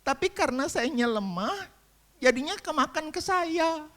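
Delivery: very high-pitched, plaintive wife voice; imitated fragile wife. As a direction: play the hurt wife, pitched right up high. Voices wife explaining her tearful hurt. (menirukan istri yang rapuh, suara sangat tinggi)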